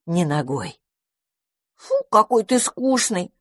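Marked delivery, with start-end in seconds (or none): 1.7-3.3 put-on high, slow squirrel kid whine; higher annoyed little squirrels. A narrator's reading. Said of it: "рассердились бельчата".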